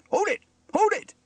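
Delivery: high, loud halting shout; interrupting shout. A narrator's reading. Steele interrupts Elvis and Trevor, shouting. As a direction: cut in sharply, twice. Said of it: "interrupted Steele".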